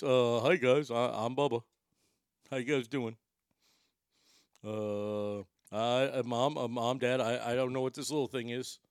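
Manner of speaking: low, hesitant dog character; Bubba's voice. Acted. Big dog confiding in Mom and Dad about the puppy, put-on pet voice. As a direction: play a bewildered pet, stumbling over words. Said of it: "that's our Bubba voice".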